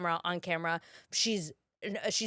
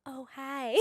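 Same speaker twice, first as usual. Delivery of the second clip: much softer, casual hello; mock breezy hi; 3 semitones higher, 10 dB quieter than usual. Jennifer Coolidge greeting the young actor, breezy soft hi. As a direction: toss it off like a kooky star. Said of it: "she's like".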